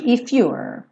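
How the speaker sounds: If you're joined, ending on English r; linked if you're. Shown as a demonstration. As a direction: link If into you're. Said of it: "Sempre juntando".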